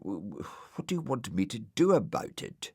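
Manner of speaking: frightened stammering whisper; scared whisper. Acted.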